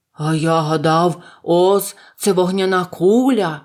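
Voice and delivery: loud, slow lion voice; lightly voiced lion, loud and drawn out; exclaiming lion. A narrator's reading. Lion telling what he took Oz for, exclaiming. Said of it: "вигукнув лев".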